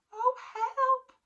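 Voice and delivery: high, loud alarmed cry; panicked cry. Acted. Natalie seeing the plant crash, high panicked cry. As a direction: yelp in fright.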